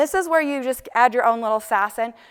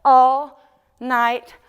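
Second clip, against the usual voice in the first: very slow, louder mock crooning of the lyric; drawn-out lyric; 7 dB louder, much slower than usual. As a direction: stretch it out big like the singer. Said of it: "He says".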